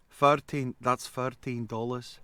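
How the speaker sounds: lightly imitated Scottish accent. Bakery girl as he heard her, mock Scottish accent. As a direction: put a hint of Scottish on the price. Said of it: "I heard Scottish language".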